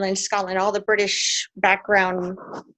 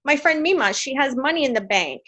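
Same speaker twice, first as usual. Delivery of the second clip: put-on childhood self; 4 semitones higher, 5 dB louder than usual. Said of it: "I said".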